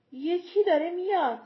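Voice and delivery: a gruff warning bark; hoarse growl. Acted. Gruff warrior warning the others of danger, rough growl. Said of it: "قرقر دورگهٔ اسکامبل".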